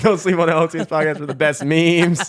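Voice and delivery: mock promo shout. Podcaster spoofing a shout-out for his memes, mock promo shout. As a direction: belt out a joke endorsement.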